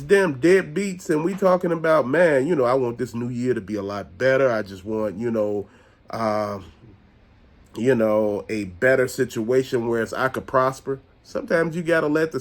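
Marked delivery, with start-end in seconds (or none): 2.1-11.0 mock whine. Mimicking people whining about new year.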